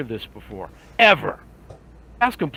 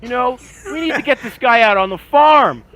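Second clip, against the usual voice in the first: indignant rant; 5 semitones higher than usual. Retold or imitated. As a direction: scold like an old-timer. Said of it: "And I'm like".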